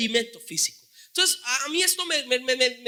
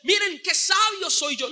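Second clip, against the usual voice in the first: mock boasting. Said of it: "Él no les está diciendo".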